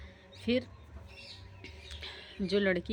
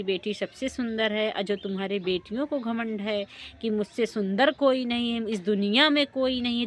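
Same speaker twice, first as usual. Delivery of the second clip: loud lecture; 3 semitones higher, 6 dB louder than usual. Acted. Guest woman lectures the family.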